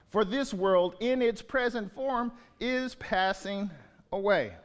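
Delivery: measured, solemn Bible reading; scripture reading. Acted. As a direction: pulpit reading of an epistle. Reads scripture passage aloud.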